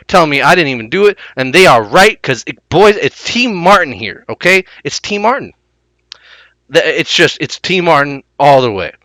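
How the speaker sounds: exaggerated lisping YouTuber voice; T Martin impression. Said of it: "I watched what T Martin had to say about it".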